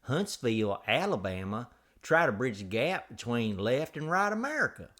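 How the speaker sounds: theatrical Southern podcast welcome, swooping intonation; exaggerated Southern-style host intro; hammed-up show intro. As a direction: play up a folksy opening spiel. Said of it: "do the whole show like that".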